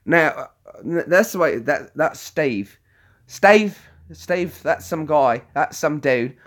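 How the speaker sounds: lightly put-on British accent; Steve. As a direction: imitate a British chap. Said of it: "He talks a bit like this".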